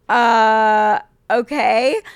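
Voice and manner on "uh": a loud, pained groan of disbelief; shocked crying groan. Real, not acted. Reading a wild listener letter, a loud shocked groan. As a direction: let out a wailing groan at the horror.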